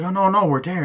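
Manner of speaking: pitched high, protesting "no, no"; mock high-voiced insistence; insisting girlfriend. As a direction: squeak out the protest.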